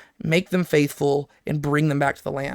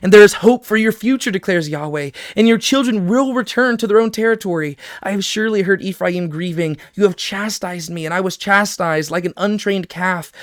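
raised, declaiming voice for the prophecy; scripture reading; 3 semitones higher than usual. Acted. Teacher reads Yahweh's promise aloud, declaiming. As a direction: proclaim the verses with lift.

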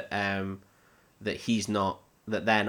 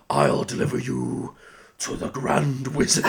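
Treebeard; 3 semitones higher than usual. Acted. Tree creature promising to deliver them to the wizard, ponderous. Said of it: "Tree Beard's gonna deliver them".

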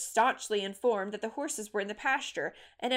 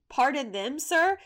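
raised, incredulous echo with a louder, higher "sir?"; indignant retort; 4 semitones higher, 5 dB louder, slower than usual. A narrator's reading. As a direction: throw it back as a sharp question. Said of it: "she retorted".

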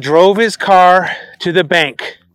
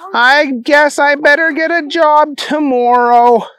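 high, silly simpleton voice; Booger; 9 semitones higher, 3 dB louder than usual. Acted. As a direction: play the goofy dimwit Booger, pitched up.

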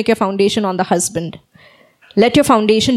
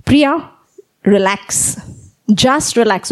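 1 gentle reassurance; slower than usual. Retold or imitated. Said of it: "Christ told me".

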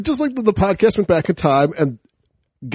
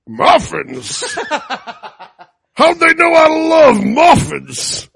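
high, slow, half-weepy delight; mock delight; 8 semitones higher, 4 dB louder, much slower than usual. Wilford Brimley finding muffins in his oven, with hammed-up delight. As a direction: gush over the muffins like a thrilled old man. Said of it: "goes like".

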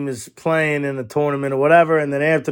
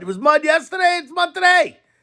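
exasperated; 13 semitones higher than usual. Retold or imitated. Exasperated retort to neighbor.

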